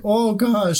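a quick Midwest "Oh, gosh."; Midwest accent. Retold or imitated. Player shows how Reginald sounded, Midwest accent.

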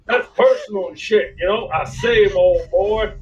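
lightly voiced blustery southern cartoon rooster. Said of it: "And then".

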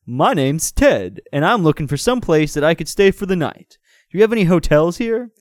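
acted amiable newcomer, lifting into the question; friendly voice. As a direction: introduce yourself amiably, in character. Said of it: "he said in a friendly voice".

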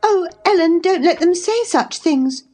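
high, distressed plea; in great trouble. A narrator's reading. Cathy pleads with Ellen, deeply troubled. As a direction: beg for comfort, near tears. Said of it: "she pursued in great trouble".

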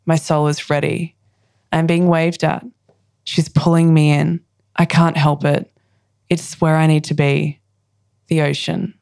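measured lines with pauses between; poem reading. Acted. Poet reads her ocean poem to the host, measured recital. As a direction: recite it line by line, letting each image land.

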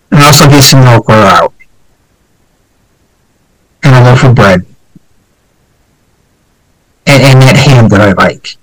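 a hint of a dying man's last words; overacted death scene. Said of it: "when Phil and I did Lee Harvey".

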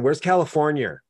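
"California" said with a New York R on the end; added R on California. Retold or imitated. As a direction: ask about "Californ-yer". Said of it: "There's no R on California".

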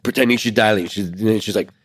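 ordinary talk, nothing marked

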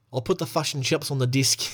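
a mock Kiwi test phrase; a lightly done New Zealand accent. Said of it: "the lock-in phrase for, for New Zealand is".

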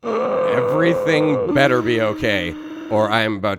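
angry customer. Acted. Angry moviegoer warns the theater worker, loud threat. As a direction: threaten to lose it, voice rising.

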